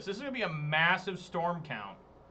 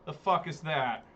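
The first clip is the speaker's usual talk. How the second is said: baffled outrage. Real, not acted. Opponent's shocking play.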